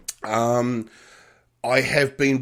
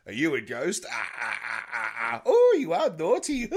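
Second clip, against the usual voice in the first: lightly voiced Sid James scene, ending in a laugh; Carry On film bit; 4 semitones higher than usual. Host retelling a Carry On gag to his co-host, playful mock voices. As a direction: ham up a cheeky Carry On exchange. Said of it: "that was my Carry On ghost".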